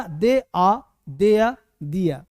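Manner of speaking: "दे आ" and "दिया" ending on vowels. Shown as a demonstration. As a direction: drop every final r: "दे आ, दिया". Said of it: "दे आर नहीं बोलेंगे". ("दे आ, दिया", र के बिना)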